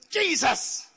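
sudden high cry after a bad shot; imitated shout. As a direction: cry it out, imitating a frustrated golfer. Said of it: "immediately he shouted".

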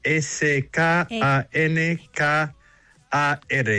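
letters S K A N K A R named slowly one by one; spelling it out. Shown as a demonstration. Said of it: "se pronuncia ecancar". (deletrear "S K A N K A R" despacio, letra por letra)

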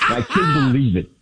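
excited. Real, not acted. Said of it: "excitement that you got in your voice".

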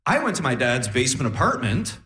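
lightly voiced grade-school kid reporting; himself as schoolboy. Poor kid's turn in class, lightly acted schoolboy voice. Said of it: "and I was like".

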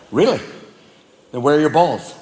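low, cutting cat question; scheming cat. Acted. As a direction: needle the dog slyly. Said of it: "the cat's like".

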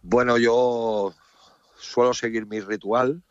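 halting and drained; exhausted. Real, not acted. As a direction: drag it out as if worn out. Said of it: "exhausto. Agotado".

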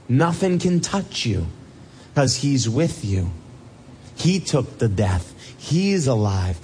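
ordinary talk, nothing marked

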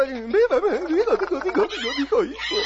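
high squeaking failed cheer; cracking voice. Acted. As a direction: let the cheer break into squawks. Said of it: "me salen los gallos".

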